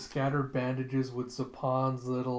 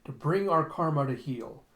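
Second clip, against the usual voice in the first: lightly raised oratorical delivery; grand speech. Retold or imitated. Retelling a scientist presenting his experiment, mildly grandiose.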